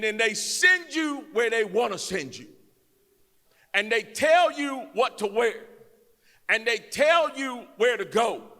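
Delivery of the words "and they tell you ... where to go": rising preacher cadence, louder toward the end; preaching. Acted. Preacher tells the crowd they serve Uncle Sam, louder. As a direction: build it up like a pulpit sermon.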